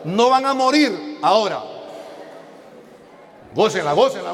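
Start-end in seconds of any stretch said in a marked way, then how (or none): 0.0-1.2 devil's lie declaimed. Retold or imitated. (la mentira del diablo, fuerte y lenta)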